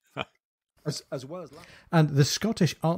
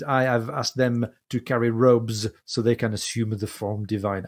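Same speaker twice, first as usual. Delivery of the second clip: put-on a light French accent on genteel English; a courteous Frenchman in a mild French accent. Captain Azima explains the robes politely, light French accent. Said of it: "I'm adding the accent".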